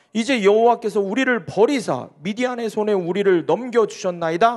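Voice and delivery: dramatic reading of Gideon's protest to the Lord; Gideon read with feeling. Acted. Pastor reads Gideon's complaint to the Lord, dramatic. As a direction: read it as Gideon, aggrieved and pleading. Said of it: "최대한 실감나게 읽은 거거든요".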